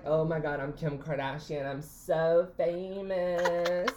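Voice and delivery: self-important celebrity gush, stretching the ending; mock diva swooning over fame; Kim Kardashian. Teller mocking own moment of fame, drawn-out diva gush. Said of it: "I'm literally like".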